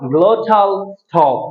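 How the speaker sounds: very slow, drawn-out "Glottal stop"; slow announcement. Shown as a demonstration. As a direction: stretch out each word of "Glottal stop". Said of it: "আমাদের টপিকটার নাম কি?". (ধীরে টেনে টেনে "Glottal stop" বলা)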